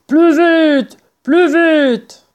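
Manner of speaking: high, loud urgent order; yelling. A narrator's reading. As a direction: yell at the workers to hurry. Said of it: "en hurlant". (ordre hurlé)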